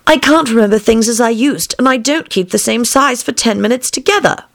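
high-pitched Alice voice; troubled young Alice. A narrator's reading.

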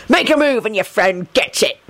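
rough threat in a put-on voice; mock scream, no real volume; understated scream. A narrator's reading. Attacker threatens the captive's friend, understated scream. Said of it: "someone screamed".

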